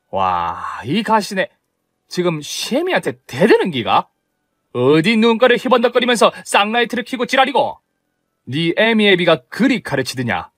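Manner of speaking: scornful Gyeongsang-dialect tirade; mother-in-law cursing the daughter-in-law for talking back, in Gyeongsang dialect; Gyeongsang mother-in-law insulting. Acted. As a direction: sneer and curse at her in Gyeongsang dialect.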